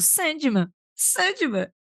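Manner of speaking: high, mild calling out. Retelling own reaction while listening to the story: imitating own shouting. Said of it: "Eu já tava aqui gritando".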